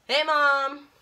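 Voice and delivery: hammed-up loud hello; calling mom. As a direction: call out to mom in a big voice.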